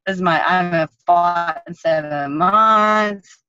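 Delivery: slow, heartbroken, half-crying retelling; retold crying. Fighter recalling her crying over the lost fight, slow and sad. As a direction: let the heartbreak drag the words out slowly. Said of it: "started, like, crying".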